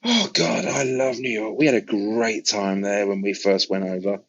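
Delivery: mock-thrilled rock star gushing; a famous singer. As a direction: lift into a giddy, delighted impression of the star. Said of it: "He was like".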